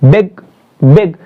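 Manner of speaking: बेग said twice as separate punched beats; teacher's demo of stress on बेग; stressed syllable. Shown as a demonstration. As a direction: press on each बेग, pausing between. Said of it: "stress दे करके".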